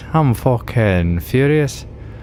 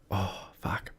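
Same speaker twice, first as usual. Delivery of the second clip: 1 whispered curse; 5 semitones lower, 18 dB quieter than usual. Real, not acted. Muttered aside after mistake.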